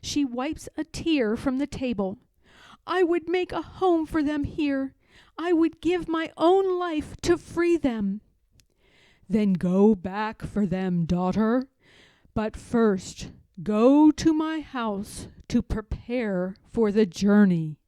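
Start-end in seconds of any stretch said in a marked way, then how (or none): 2.9-8.2 higher, sorrowful plea; Harriet lamenting. Acted. Harriet vows to God. 9.3-17.8 a steady divine order; voice of God. Acted. God sends Harriet.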